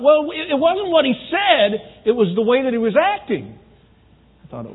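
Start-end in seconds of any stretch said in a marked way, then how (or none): 0.0-3.6 high-pitched, exasperated wife imitation; upset wife. Wife explains to counselor why she's upset, exasperated. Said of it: "she's mad".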